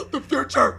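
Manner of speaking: theatrical awe; mock amazement. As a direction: cry it out like a cheesy sci-fi revelation. Mock gasp at time travel.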